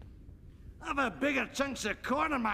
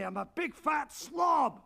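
self-mocking shout; 4 semitones higher, 3 dB louder than usual. Loud self-mocking outburst.

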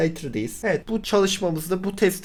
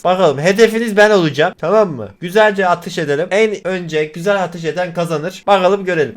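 loud, raised voice lining up the troops; drill instructor; 3 semitones higher, 7 dB louder than usual. Acted. Streamer playing instructor to the grandpas, loud commanding voice. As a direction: bark orders at a row of recruits.

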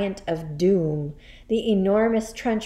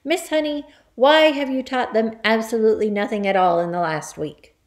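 raised, accusing headmistress voice; triumphant; 3 semitones higher, 6 dB louder than usual. Acted. Headmistress blames teacher before the class, triumphant. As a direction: press the charge in triumph.

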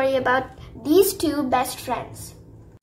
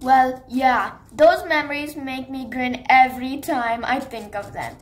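put-on a sneaky bully who enjoys old mischief; scheming villain. Shadow the villain crane.

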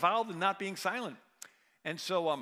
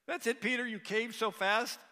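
mock disbelief; 6 semitones higher, 3 dB louder than usual. Preacher teasing Peter for denying Jesus, mock disbelief. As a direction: needle him for caving so fast. Mocking Peter's quick denial.

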